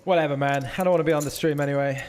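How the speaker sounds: mock sulk. Mock sulk at being left off.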